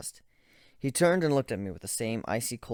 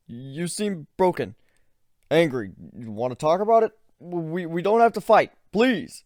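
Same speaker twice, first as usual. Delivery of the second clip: higher, louder pleading; begging; 8 semitones higher, 9 dB louder than usual. Acted. Ivan begging the narrator not to fight. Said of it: "He begged".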